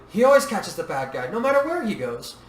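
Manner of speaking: put-on high, proud child voice; little girl's confident lilt; bright. A narrator's reading. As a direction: boast happily about your daddy. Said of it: "Yui said brightly".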